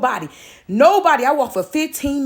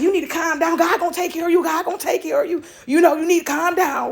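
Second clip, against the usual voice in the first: reassuring dad; 5 semitones higher than usual. Retold or imitated. Dad soothing his crying daughter.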